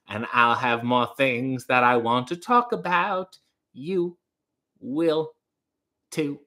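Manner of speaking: put-on Baltimore accent. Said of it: "weird kind of Baltimore accent".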